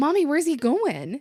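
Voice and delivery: put-on high, loud little-kid yell. Retelling a child calling out during the movie: imitating a little kid yelling. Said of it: "I hear this little voice yell".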